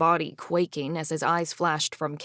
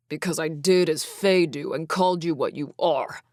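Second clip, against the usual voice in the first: spat out angrily; 3 dB louder than usual. Acted. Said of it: "Chasm spat".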